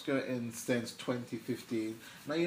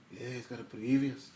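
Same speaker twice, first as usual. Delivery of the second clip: badly faked Cockney reply; terrible Cockney accent; 4 dB louder than usual. Answering as in The Bill, terrible Cockney accent. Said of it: "that's just my terrible accent".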